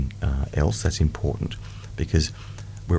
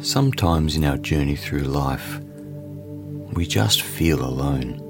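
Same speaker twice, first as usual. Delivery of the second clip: guided meditation. Acted. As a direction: ease the listener into calm.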